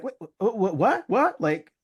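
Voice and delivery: high, bewildered what-what-what; incredulous what. Retold or imitated. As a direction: pile on the disbelief, pitch way up. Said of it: "Rachel and Mama Winslow are just like".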